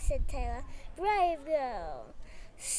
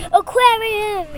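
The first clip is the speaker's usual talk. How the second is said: loud, higher spell cry; raised storybook shout; 4 semitones higher, 11 dB louder than usual. A narrator's reading. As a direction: call out the magic word forcefully. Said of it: "shouted Taylor".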